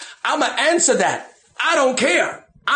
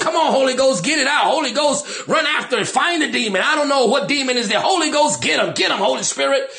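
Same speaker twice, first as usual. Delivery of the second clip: cheering on; 2 semitones higher, faster than usual. Retold or imitated. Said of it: "I start cheering for the Holy Ghost".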